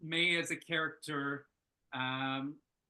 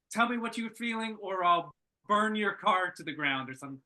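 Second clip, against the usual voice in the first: raised, pushy demand; acting out a character demanding an answer, louder and pushier; mock threat; 3 semitones higher, 5 dB louder than usual. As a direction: push hard, half-joking threat. Character demands, threatens to burn car.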